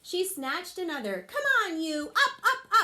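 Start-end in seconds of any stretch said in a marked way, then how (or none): 1.3-2.8 high loud urging with a laugh; yelling at leaves. Acted. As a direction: laugh while you shout it.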